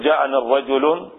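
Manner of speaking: "الرجل" ending in an audible -un; wrong tanween form. Shown as a demonstration. Teacher showing what is not allowed, wrong tanween form. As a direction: say "الرجل" as ar-rajulun, with forbidden tanween. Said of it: "ما يجوز".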